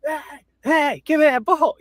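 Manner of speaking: high, grabby cry for the ball; a mock-entitled fan calling for the ball; demanding Karen voice. Fan mocking a demanding woman, high and grabby. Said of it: "I'm not gonna be like".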